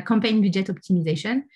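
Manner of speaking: unpolished English in a real French accent. Real, not acted. Trainer repeating the term after apologising, French-accented English. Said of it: "J'ai un accent terrible en anglais".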